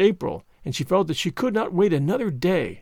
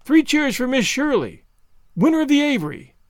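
high, ringing announcement; calling out; 7 semitones higher than usual. A narrator's reading. Someone in the hall announcing the winner, calling out. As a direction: call it out to the whole hall. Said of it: "somebody called out".

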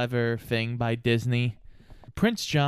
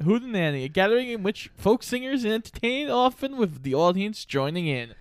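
dictionary reading; 6 semitones higher than usual. Shown as a demonstration. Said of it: "definition read out".

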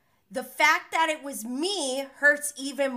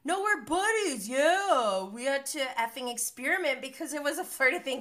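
higher put-on defensive voice; mock excuse; 5 semitones higher than usual. Recapper mimics Schwartz excusing the kiss, higher and defensive. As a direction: play it off, high and sheepish.

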